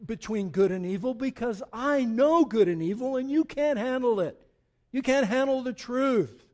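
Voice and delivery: a hint of Jack Nicholson, building to a loud stern climax; God as a stern Jack Nicholson, lightly voiced. Preacher voicing God to the congregation, a mild Nicholson impression. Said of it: "That's my best Jack Nicholson".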